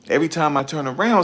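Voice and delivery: fed-up cry to viewers; exasperated outburst. Real, not acted. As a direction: throw the line up in disbelief. Complaining to viewers.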